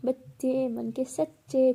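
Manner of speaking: slowly drawn out like a rhyme; slow sing-song saying. Acted. Bhavna defending her childishness with a sing-song saying. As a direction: recite it like a cheeky proverb.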